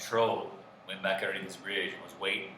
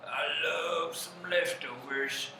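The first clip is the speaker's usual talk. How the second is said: higher, drawn-out pondering; musing hungry troll; 7 semitones higher, slower than usual. Acted. Troll weighing up a little meal, musing hungrily. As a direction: savour the thought, lightly higher.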